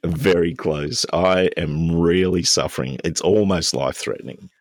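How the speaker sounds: hammed-up suffering with a cold; mock dying of man flu. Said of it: "develop into a man flu".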